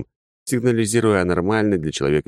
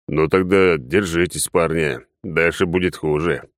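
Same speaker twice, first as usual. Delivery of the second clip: encouraging; slower than usual. Acted. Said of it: "ободрил я патрульных".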